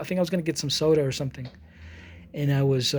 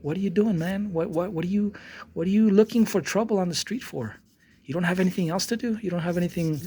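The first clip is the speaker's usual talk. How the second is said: higher-pitched exasperated questioning, no shouting; retold irritation; 3 semitones higher than usual. Dog walker scolds a staring stranger, mildly pissed off. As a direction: scold in mild, pestered disbelief. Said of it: "It really pissed me off".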